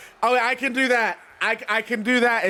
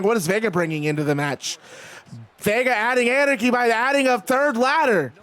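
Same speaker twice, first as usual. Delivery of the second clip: animated ringside announcer call; live wrestling play-by-play; 3 semitones higher than usual. Acted. Streamer calls the ladder climb and drops, play-by-play. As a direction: follow the action as a match commentator.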